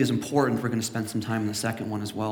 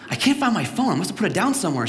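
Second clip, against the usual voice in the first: retold panic; 6 semitones higher, faster than usual. Panicked son quoting himself.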